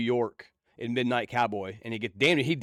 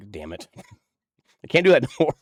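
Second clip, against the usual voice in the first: mock regret laughing; faster than usual. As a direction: grumble it, then crack up. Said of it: "and I'm like".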